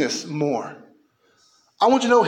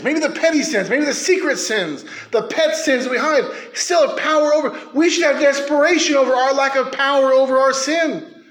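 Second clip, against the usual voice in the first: loud sharp voice; 5 semitones higher than usual. Real, not acted. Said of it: "Why are you yelling?".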